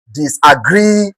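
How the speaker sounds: Disagree with a long, slow GREE; slow Disagree, leaning on GREE; stress on GREE. Shown as a demonstration. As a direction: stretch the last syllable of Disagree. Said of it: "consider the word, the stem".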